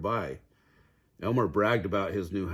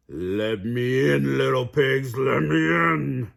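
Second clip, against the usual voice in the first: slow, sing-song and louder; sing-song wolf; 4 semitones higher, 6 dB louder, slower than usual. A narrator's reading. Wolf at the stick house door, singing loudly. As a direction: croon it to lure them out. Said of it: "the wolf sang".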